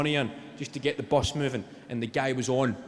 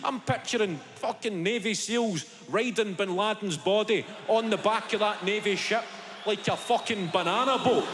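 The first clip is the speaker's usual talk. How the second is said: ordinary delivery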